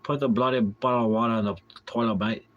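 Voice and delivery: mock Scottish or British put-on accent; punchy, playful Scottish accent; aggressive Scottish accent. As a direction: come at it like a brash Scot, lightly. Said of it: "come at it with aggressiveness".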